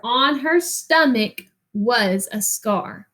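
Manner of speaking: put-on reading a picture book to children, rhythmic and lilting; expressive read-aloud narration; story reading. Reads story aloud to class.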